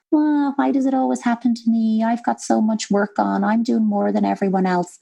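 high whine that gradually eases down; whingy, whiny child. Pretend. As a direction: whinge like a hard-done-by child. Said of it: "either that whingy, whiny".

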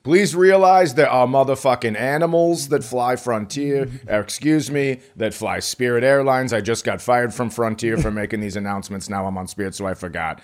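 mock flight announcement. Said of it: "just like personal announcements".

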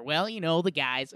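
lightly put-on coach impression; John Gruden. Shown as a demonstration. Host demonstrates talking baseball in his Gruden voice. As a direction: slip into a mild sportscaster impression. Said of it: "talk in my John Gruden voice".

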